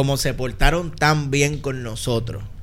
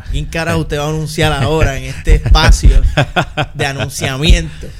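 laughing; 7 dB louder than usual. Real, not acted. Laughing through a rant.

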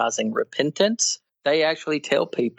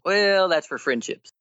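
higher-pitched mock concession; mocking imitation; 6 semitones higher than usual. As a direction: mimic their excuse with a raised voice. Mimics opponents' argument, incredulous.

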